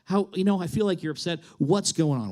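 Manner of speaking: composed, gentle check-in; measured concern; calmed down. Retold or imitated. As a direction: settle yourself and ask with care. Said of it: "So I, I calm myself down".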